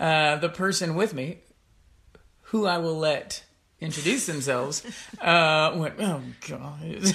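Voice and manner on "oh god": mock muttered aside under breath. A host retells what the person with her said as recording began, retelling muttering under breath. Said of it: "under her breath".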